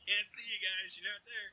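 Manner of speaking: putting helmet on and talking through it; as if the helmet blocks your view; muffled behind helmet. Real, not acted. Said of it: "put the helmet on so I don't have to look".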